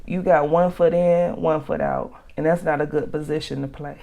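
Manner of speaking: breathless after ranting; running out of air, still pushing; out of breath. Real, not acted. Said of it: "I'm out of breath".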